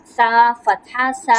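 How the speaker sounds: سا said slowly with the tongue between the teeth; soft tongue-between-teeth sa. Shown as a demonstration. Quran teacher modelling the soft سا for a child. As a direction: draw out سا with a soft th-like hiss. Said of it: "جیسے دونوں دانتوں کے درمیان میں اپنی اگر زبان رکھیں گے".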